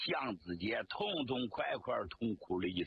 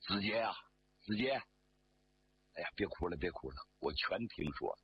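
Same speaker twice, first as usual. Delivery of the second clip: consoling; 7 semitones lower, faster than usual. Acted. Commander consoles the crying officer.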